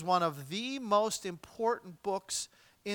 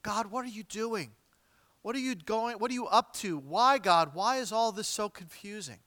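pleading questions to God, raised a little; heartfelt cry; 3 semitones higher than usual. Acted. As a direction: cry out to God as a bewildered prophet. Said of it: "That's the cry of Habakkuk's heart".

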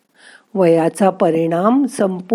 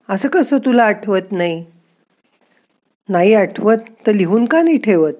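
lightly voiced scolding grandson; a mild mock telling-off; 3 semitones higher than usual. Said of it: "नातू केवढा ओरडला तिच्यावर".

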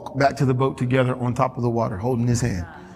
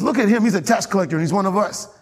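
accusing Pharisee; 4 semitones higher than usual. Acted. Pharisee denouncing tax collector.

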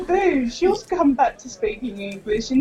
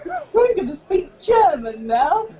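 put-on high, giddy drunken declaration; excited drunk announcement; 6 semitones higher than usual. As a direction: announce it like a tipsy show-off. Drunk self quoted, excited.

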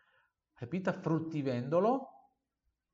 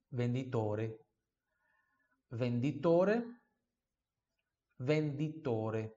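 slow repeat; slower than usual. Shown as a demonstration.

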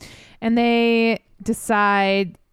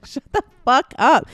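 a put-on voice for the king, louder; mock angry king; 6 semitones higher, 5 dB louder than usual. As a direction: bark it like a cranky lion king. Repeating Lion King voice.

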